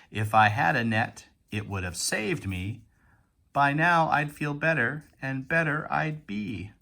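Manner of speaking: lively, measured read-aloud of a rhyme; poem read aloud. Acted. Teacher reading a poem to pupils, lively read-aloud. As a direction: read it to children with lifted line ends.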